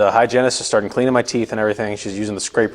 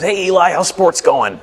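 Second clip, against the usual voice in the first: slow, higher-pitched chummy dentist; dentist impression; 6 semitones higher, slower than usual. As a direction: imitate a dentist greeting a young patient. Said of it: "That's how he talks".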